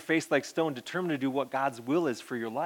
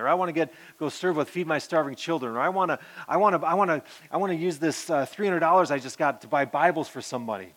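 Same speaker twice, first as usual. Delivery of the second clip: put-on eager kids; 2 semitones higher than usual.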